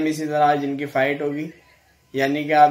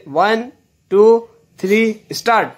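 raised, higher-pitched starting call; referee's countdown; 6 semitones higher, 4 dB louder than usual. Real, not acted. Referee starting the mock fight between two players, calling out loudly. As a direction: call out the count to launch the bout.

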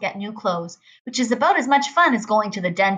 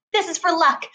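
raised, higher bossy woman; lightly voiced pushy Loretta; a hint of a brash woman teasing; Loretta's voice; 7 semitones higher than usual. A narrator's reading. Loretta voiced in read story.

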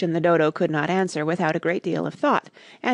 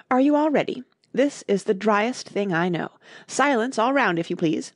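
pompous, raised pitch; self-important; 4 semitones higher than usual. Acted. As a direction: call for silence like a chairman. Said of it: "with an important air".

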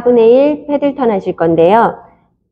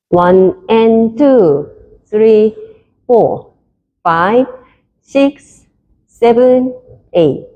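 counting dance steps; much slower than usual. Shown as a demonstration. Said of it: "카운트".

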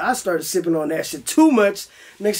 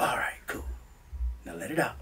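unvoiced whisper, much softer; whispered self-coaching; 10 semitones lower, 14 dB quieter than usual. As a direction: breathe the words to yourself. Coaching himself to breathe.

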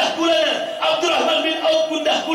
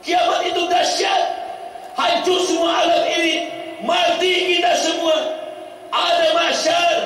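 preaching rebuke. Acted. Prophet warning the badui about the last day, preached.

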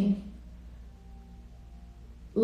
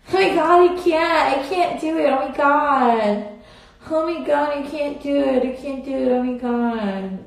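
higher, breaking into giggles; giggly frustration; 4 semitones higher than usual. Real, not acted. Streamer failing to force a laugh, giggly and exasperated. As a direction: fight the laugh that won't come right.

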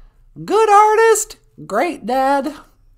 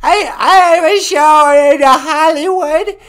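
put-on hard-of-hearing old woman; old lady voice; 6 dB louder than usual. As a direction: croak like a deaf granny. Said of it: "She's really old and nasty".

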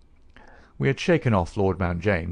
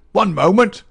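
even higher and louder insistent repeat; insist, cutting them off with the second call; querulous cry, building; 11 semitones higher, 9 dB louder than usual. A narrator's reading. Old man bursting in on the detectives, querulous cry. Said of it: "cried a querulous voice".

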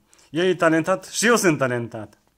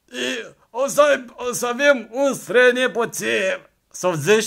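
higher; 9 semitones higher, 5 dB louder than usual. Pretend. Voicing grandparent dreams.

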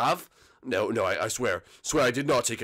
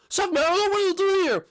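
high squeaky voice; 4 dB louder than usual. Acted. Jailed character voiced.

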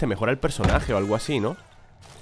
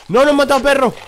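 much higher, much louder cry of dismay; anguished shout; 11 dB louder, faster than usual. Real, not acted. Gamer watching his dog get killed, anguished shout. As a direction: yell it out as the dog dies.

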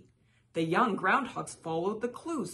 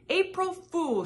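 higher, louder gleeful shout; 12 semitones higher, 8 dB louder than usual. A narrator's reading. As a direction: crow the reveal. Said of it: "shouted Pete".

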